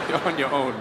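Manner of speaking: low mock-sympathetic aside; unhelpful onlookers. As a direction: say it low, washing your hands of him. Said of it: "they just look at him like".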